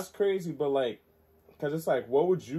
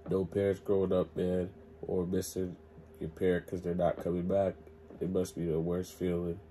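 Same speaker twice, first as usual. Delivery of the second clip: quiet and downcast; softly saddened, low energy; sad, subdued; 4 semitones lower, 6 dB quieter than usual. Real, not acted. Saddened reflection on orphaned kids.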